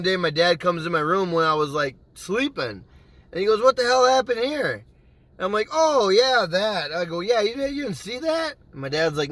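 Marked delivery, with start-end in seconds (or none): 3.6-4.8 dad's retold demand. Dad discovers the hole. 5.7-8.5 feigned casualness. Retold or imitated.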